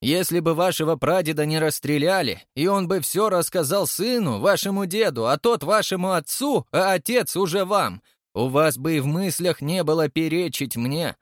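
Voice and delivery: high-pitched, heated scolding; angry tirade. A narrator's reading. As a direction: berate him in an outraged, high voice. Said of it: "в гневе председатель". (гневная отповедь на высоких тонах)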